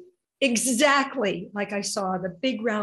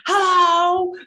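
loud shouted hello, much higher; retold scream; 10 semitones higher, 11 dB louder than usual. Retelling how the husband yells hello at home, loud shout. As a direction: bellow it like a booming husband. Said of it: "but he screams".

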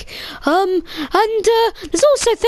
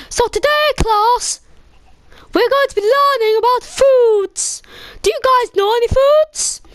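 mock French teacher; 4 semitones higher than usual. Player voices French teacher lecturing.

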